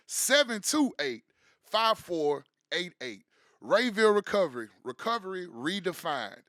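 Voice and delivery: upbeat radio ad voice; ad read. Acted. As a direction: sell it like a sponsor spot. Reads sponsor ad.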